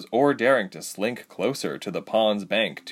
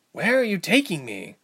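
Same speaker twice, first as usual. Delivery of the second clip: high-pitched, anxious question; alarmed captive; 9 semitones higher than usual. A narrator's reading. Ilse to the creatures herding her away, alarmed. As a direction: ask captors in a high, worried voice.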